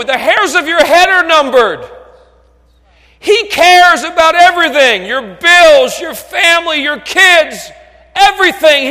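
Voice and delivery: high, loud pulpit shout; full-force sermon shout; shouted preaching. Acted. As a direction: hammer each item out to the congregation.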